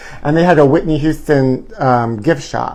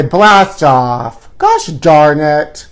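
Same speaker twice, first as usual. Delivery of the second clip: slow, drawn-out gosh darn it; fake-annoyed comeback, dragged out; mock retort; much slower than usual. Vlogger imagining a comeback to the celebrity, slow mock scolding. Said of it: "I wanna say".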